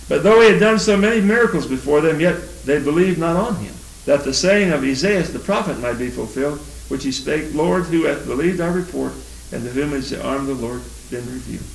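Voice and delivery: measured, solemn Bible reading; scripture reading. Acted. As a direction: read the verses out to the congregation. Reads John twelve.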